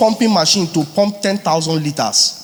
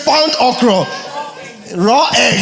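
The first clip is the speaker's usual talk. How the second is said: mock quoting; 7 semitones higher, 3 dB louder than usual. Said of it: "They say".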